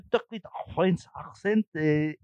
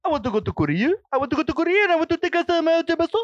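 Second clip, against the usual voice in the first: fast, higher mock Asian accent; 9 semitones higher, much faster than usual. Doing a mock Asian accent on a friend's dare, fast and high. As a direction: rattle it off in a hammed-up Asian accent. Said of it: "do the Japanese in English".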